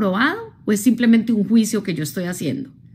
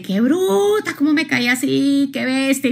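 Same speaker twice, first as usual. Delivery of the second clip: higher, mock self-scolding exclamation; lightly mocking, much higher pitch; 5 semitones higher than usual. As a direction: imitate someone scolding herself after a fall. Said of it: "Otra gente dice".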